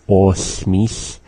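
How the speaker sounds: os, mis run together as one word; joined together. Shown as a demonstration. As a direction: say os, mis without a break. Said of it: "we say it all as being one".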